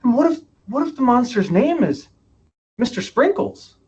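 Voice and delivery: playful dad. Retold or imitated. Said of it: "And he goes".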